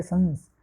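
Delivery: "संस" with the n sound sent through the nose; nasal anusvara. Shown as a demonstration. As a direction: let "संस" resonate in the nose. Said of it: "नाकित से ध्वनि निकलेगी".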